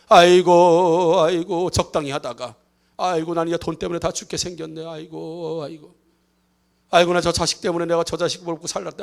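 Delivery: sighing despair, lightly acted; mock wailing. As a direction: wail aigo like a hammed-up mourner. Mourner wailing over money troubles.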